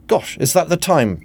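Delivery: high-pitched flustered bluster; mock-surprised bluster. A narrator's reading. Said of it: "blustered Bland".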